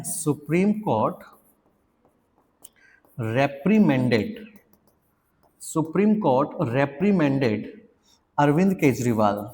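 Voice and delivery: "reprimanded" stretched out very slowly. Shown as a demonstration. Teacher building an example sentence, very slowly. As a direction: drag the word out for the class. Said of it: "slow example".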